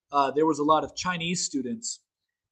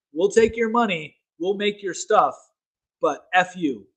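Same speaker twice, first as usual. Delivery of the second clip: retold defiance; 3 semitones higher than usual. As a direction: act out a lightly defiant reply. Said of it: "they were like".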